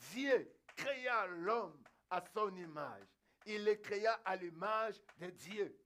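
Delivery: slow, weighty Bible recitation; scripture proclamation. Real, not acted. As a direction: proclaim the verse word by word. (verset proclamé lentement, avec solennité)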